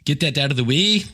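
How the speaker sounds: a lightly faked Scottish accent, barely there; mock Scottish accent. Host parroting his Scottish guest in mock Scottish accent. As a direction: echo the guest's line in a half-hearted Scottish accent. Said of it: "trying my accent again".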